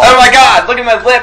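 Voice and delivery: high, loud mock of the whiny neighbor; mocking whine. Friend mocking the neighbor's lip complaint, high and loud. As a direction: ham up his wounded whine.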